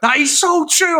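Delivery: high, emphatic mock cry of agreement; crying with laughter. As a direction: hail it as the truth, pitched right up. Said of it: "I was fucking crying".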